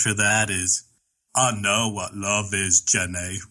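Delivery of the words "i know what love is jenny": terrible Forrest Gump. Retold or imitated. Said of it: "a terrible Forrest Gump".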